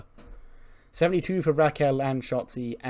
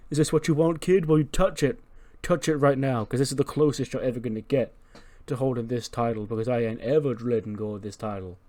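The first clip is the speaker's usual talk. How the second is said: menacing Roman taunt; 3 dB louder than usual. Retold or imitated. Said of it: "He's like".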